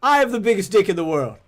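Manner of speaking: hammed-up Tate impression in mixed English accent; mock Andrew Tate accent. Mocking Andrew Tate's bragging in his mixed English accent. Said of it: "what is this accent".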